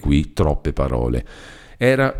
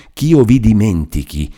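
disbelieving repeat, pitched up; incredulous echo; 3 semitones higher than usual. Acted. Renzo repeats Lucia's words in disbelief. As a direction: repeat it as if unbelievable.

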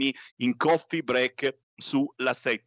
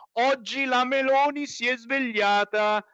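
sarcastic mock; 12 semitones higher than usual. Sarcastic high mocking voice.

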